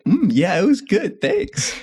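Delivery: high-pitched fake-innocent thanks; mock innocence. Kid lying to the host about the milk, high mock-innocent. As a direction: play the little kid covering up, voice climbing high. Acting out his childhood cover-up.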